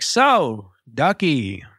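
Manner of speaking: drawn-out villain greeting; evil villain. Retold or imitated. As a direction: let each word slide down like a lightly played villain. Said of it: "Evil villain style too".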